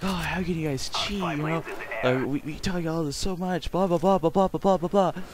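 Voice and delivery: high-pitched mock scolding teacher, trailing into blahs; teacher flipping out. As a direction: imitate a ranting old teacher, pitch shooting up. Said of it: "he's just, like, flipping out".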